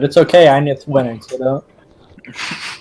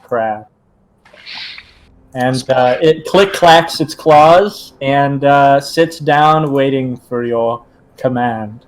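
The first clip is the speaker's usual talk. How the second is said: scene narration; slower than usual. Acted. GM describes the summoning scene.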